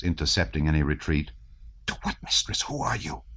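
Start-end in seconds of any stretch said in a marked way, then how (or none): 1.9-3.2 hushed, whispered questions; soft, breathy, alarmed whisper; breathless whisper. A narrator's reading. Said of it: "asked Anatole in a breathless whisper".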